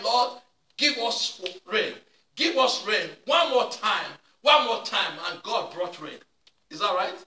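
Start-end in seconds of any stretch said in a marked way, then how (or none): 0.0-5.2 crying out prayer. Retold or imitated. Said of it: "but they are crying".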